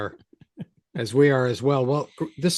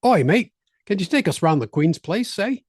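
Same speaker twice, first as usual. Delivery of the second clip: put-on high, loud cockney-style English accent; 7 semitones higher, 4 dB louder than usual. Visitor asking for a ride round England, mock English accent. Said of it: "I pick up on accents".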